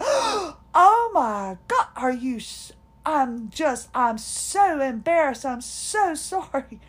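mortified and apologizing; embarrassed shock. Retold or imitated. Apologizing to the therapist for rushing her, embarrassed shock.

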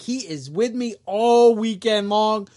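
a hint of a girlfriend covering for him. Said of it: "his girlfriend's like".

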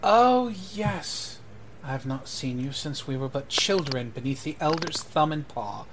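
lightly voiced noble, rising on the opening; greeting noble. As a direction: greet an old acquaintance in a lightly formal character voice. Noble greets a childhood acquaintance.

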